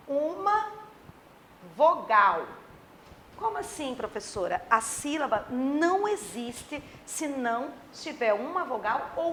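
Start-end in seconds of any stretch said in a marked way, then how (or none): 3.4-4.6 softly voiced puzzled pupil; lightly acted bewildered student.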